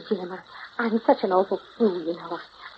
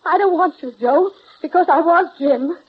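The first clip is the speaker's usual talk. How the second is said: higher, drawn-out anguished outburst; anguished confession; 6 semitones higher, 4 dB louder than usual. Acted. Telling Joe she wants Jim instead, anguished outburst. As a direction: force the confession out, slow and pitched up.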